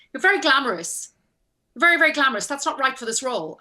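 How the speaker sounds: mock a critic sizing someone up; retold disapproval. Costumier telling an actor what is wrong with her, disapproving.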